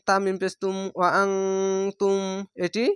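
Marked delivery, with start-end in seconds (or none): 1.0-2.2 ওয়া আং তুম with a held nasal ং; ikhfa ghunnah. Shown as a demonstration. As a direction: hum the ং of আং before তুম. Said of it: "ইকফা গুন্না one স্কয়ারের মতো". (আং-এ নাকে টেনে গুন্না)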